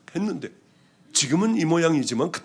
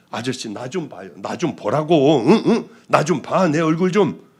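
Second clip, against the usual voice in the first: louder, insistent call to a man who won't look; urging him to turn and look, raised voice; woman calls the drunk man to look at her, louder; 5 dB louder than usual. Retold or imitated.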